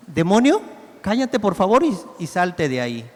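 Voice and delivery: mock-gentle, overly polite request; sweet and smiling. The wrong image of Jesus, a mild smiling request. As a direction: ask the demon nicely, smiling, almost pleading. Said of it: "con una cara muy bonita, muy buena, sonriéndole".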